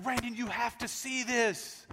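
mock-excited wife calling her husband over. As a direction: mimic the wife bursting in to show him. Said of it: "she's so excited".

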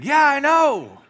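knowing drawn-out yeah. Acted. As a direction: stretch it out like you know the feeling. Pastor's drawn-out reply.

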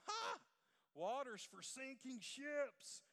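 imitating a German grandfather, high scoffing "Ha!", then drawn out; German accent. Grandson mimicking his grandfather turning down water, German accent. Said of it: "in his German accent".

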